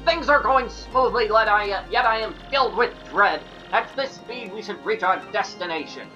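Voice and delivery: a hint of a preening fop; affected fluting fop. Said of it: "foppish dandy voice".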